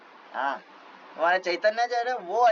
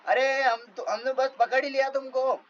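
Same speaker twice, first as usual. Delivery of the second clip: raised, pitched-up taunting shout; mock drunken yell; 6 semitones higher than usual. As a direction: jeer at the runaways from behind. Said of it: "ऐसे चिल्ला रहे थे ये".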